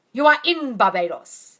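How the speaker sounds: Abdullah's firm pronouncement, slow and loud; solemn teacher. Retold or imitated. Teacher answering student, slow firm pronouncement.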